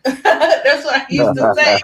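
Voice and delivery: laughing through the words; chuckling while saying it. Real, not acted. Laughs at her old self.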